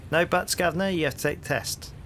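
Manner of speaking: hearty London copper, rising into the question; cheery Cockney policeman greeting a stranger; cockney bobby. Acted. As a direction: play the nosy beat cop on his rounds. Policeman insists.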